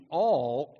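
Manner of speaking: all lifted with emphasis; all with exclamation. Shown as a demonstration. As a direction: say all as if it had an exclamation point. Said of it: "exclamation point".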